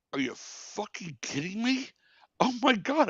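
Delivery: mock disbelief. Retelling his shocked reaction to betrayal.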